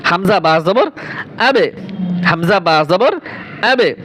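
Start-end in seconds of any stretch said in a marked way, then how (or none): 1.4-1.7 "আবে" with the b bouncing off the lips; echoing qalqalah. Shown as a demonstration. Teacher drilling ba, "আবে" with qalqalah bounce. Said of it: "ওই হরফের স্থান দিয়ে কলকলা হবে". 3.6-4.0 "আবে" with the b bouncing off the lips; echoing qalqalah. Shown as a demonstration. Teacher drilling ba, "আবে" with qalqalah bounce. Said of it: "ওই হরফের স্থান দিয়ে কলকলা হবে".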